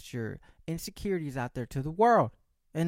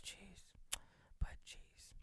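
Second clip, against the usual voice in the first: barely voiced exasperated aside; whispered sigh; 19 dB quieter, slower than usual. Real, not acted. Host griping about healthy food, whispered exasperation. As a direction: breathe it out as a whispered groan.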